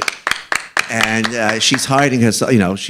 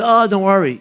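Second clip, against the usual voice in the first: mock casual shrug; 8 semitones higher, 3 dB louder than usual. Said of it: "You can't just be".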